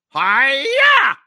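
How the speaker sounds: high, loud karate cry; karate yell. Retold or imitated. Louis showing off his karate to the crooks, a loud yell.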